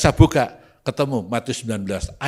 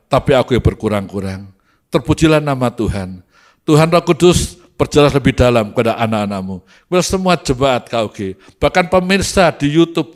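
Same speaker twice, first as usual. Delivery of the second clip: earnest pastor's prayer, steady and projected; measured, declarative praying voice; public prayer; 3 semitones higher, 7 dB louder than usual. Acted. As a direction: lead the congregation in solemn thanksgiving to God. Continues closing prayer.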